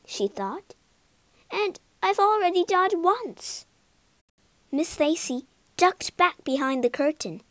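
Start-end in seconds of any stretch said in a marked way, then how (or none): 1.5-3.7 high squeal then a fussy lady ghost; shriek, then fret about being seen; squeaky ghost lady. Acted.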